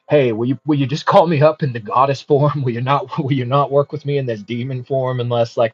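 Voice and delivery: lightly voiced demon nagging to be called as a goddess; insistent demon. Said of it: "insistent that demon is on".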